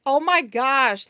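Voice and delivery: loud, slow oh my gosh; loud mock exclamation. Customer imitating a loud hippie man, loud and slow. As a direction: belt it out like a showy stranger. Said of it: "this guy just really loud".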